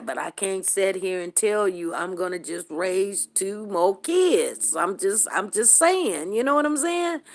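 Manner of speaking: firm protest. Retold or imitated. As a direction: set her straight, half laughing at the start.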